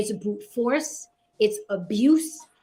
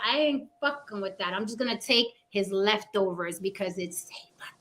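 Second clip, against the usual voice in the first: softer, sliding into a whisper; cowed whisper; 4 semitones lower, 6 dB quieter than usual. Retold or imitated. Voicing the weaker gorilla backing off, hushed. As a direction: mutter it like a beaten rival keeping low.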